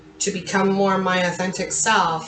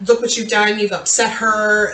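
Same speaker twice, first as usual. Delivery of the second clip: a mildly raised, scolding mother's voice; upset scolding mom; 2 semitones higher than usual. Retold or imitated. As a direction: adoptive mom scolding her six-year-old, mildly raised and alarmed. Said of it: "my adoptive mom lost it".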